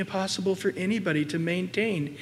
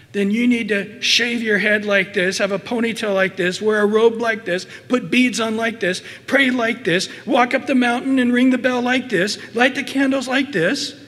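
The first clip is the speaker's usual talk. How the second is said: mock list of demands; 2 semitones higher, 4 dB louder than usual. Preacher mimicking religions telling you how to be right, insistent. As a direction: rattle off the rules, each one pushed harder.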